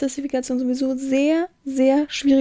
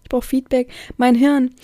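ordinary talk

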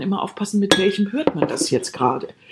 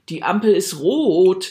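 slow meaningful hint; slower than usual. Shown as a demonstration. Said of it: "wenn ihr sagt".

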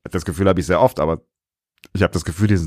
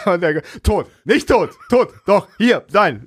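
excited; 9 semitones higher, slower than usual. Real, not acted. Excited back-and-forth dead or not.

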